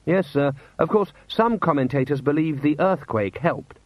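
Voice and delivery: tactful lieutenant raising an objection; deferential adjutant. Acted. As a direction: politely correct a superior. Figure in story dialogue.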